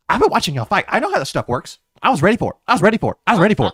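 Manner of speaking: taunting the fighter, pleased with himself; cocky taunt. Acted. Specs taunts the brawler, smug and loud.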